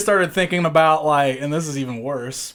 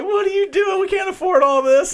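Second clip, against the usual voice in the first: mock shout. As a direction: yell it like an alarmed wife. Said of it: "she's like".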